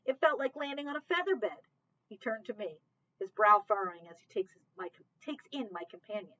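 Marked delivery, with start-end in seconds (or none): 0.0-1.6 higher, louder mock-sweet sarcasm; sarcastic. C J mocking Mitchell's question, loud and sarcastic. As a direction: lay the sarcasm on thick. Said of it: "C J snaps sarcastically".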